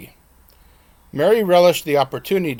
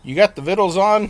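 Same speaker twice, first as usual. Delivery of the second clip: mock country twang; 5 semitones higher, 6 dB louder than usual. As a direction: play the grown son putting on a joking rural Southern accent. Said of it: "he asked in a mock country twang".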